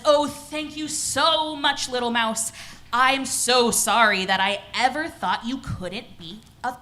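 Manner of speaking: slow, lightly acted grateful lion; grateful, sorry lion. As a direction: draw out the thanks and apology with understated drama. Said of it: "and he says".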